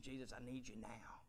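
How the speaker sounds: soft, hushed plea to Jesus; whispered prayer. Retold or imitated. Preacher retelling his own prayer to Jesus, whispered. Retold prayer in living room.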